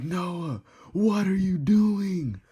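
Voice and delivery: high, loud, slow imitation of an angry girlfriend; mad girlfriend. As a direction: mimic her scolding in a high voice. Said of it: "She's mad".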